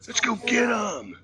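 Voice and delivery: high, loud, drawn-out rallying shout; slow, hammed-up charge into battle; fired-up battle cry. Husband rallying his wife against her mistreaters, hammed-up shout.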